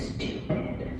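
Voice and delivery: whispered, voice dropped right down; quiet whisper. Retold or imitated. Daughter leaning in to whisper the forbidden word. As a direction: lean in and breathe the word. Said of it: "she leans in real quiet".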